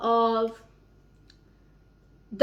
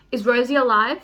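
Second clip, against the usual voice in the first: urgent asking; 7 dB louder than usual. Real, not acted. Repeating the question urgently.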